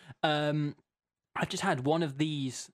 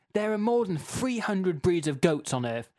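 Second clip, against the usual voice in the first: emphatic, mildly raised rant; mock angry reading; 3 semitones higher than usual. Host reading an irate listener's goat rant, mock angry. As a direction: escalate an absurd complaint with mild outrage. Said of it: "the thing that everyone's angry about".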